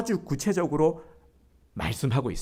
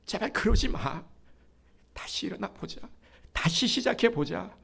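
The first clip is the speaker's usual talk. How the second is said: higher, urgent, begging tenderness; pleading love; 5 semitones higher than usual. Acted. God pleading with a downcast child, higher and pleading. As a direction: plead with a child who has given up. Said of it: "하나님께서 이렇게 우리에게 말씀하고 싶으신 겁니다".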